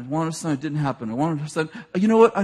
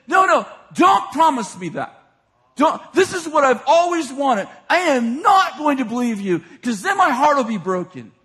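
upset refusal; 4 semitones higher than usual. Retold or imitated. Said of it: "she's upset with him".

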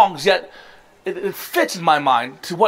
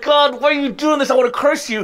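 distressed plea; 6 semitones higher than usual. Retold or imitated. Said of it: "you feel so distressed that you're like".

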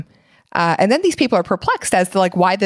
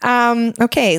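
after laughing hard. Real, not acted. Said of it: "Let me compose myself here".

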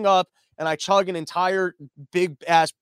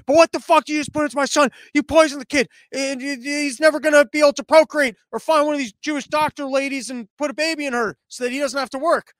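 higher, louder shrieking mom voice; panicked Jewish mom; 7 semitones higher, 4 dB louder than usual. Retold or imitated. Nervous mom yelling at the water company, shrieking panic. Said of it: "she goes into panic mode".

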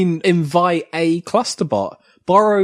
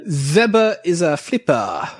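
put-on Russian accent. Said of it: "is that your Russian accent?".

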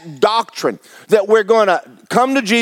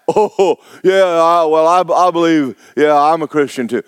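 hesitant believer; 3 semitones lower than usual. Retold or imitated. Unconvinced believer, mocked.

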